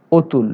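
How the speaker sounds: অতুল starting on o, "otul"; o-like vowel. Shown as a demonstration. Teacher giving another example, o-vowel অতুল. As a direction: round the first vowel of অতুল to o. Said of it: "ওকারের মতো হয়".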